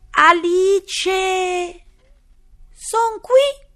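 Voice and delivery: high, loud cry; shouting. A narrator's reading. Alice shouting to the rabbit, eager. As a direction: call out eagerly to the court. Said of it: "gridò Alice".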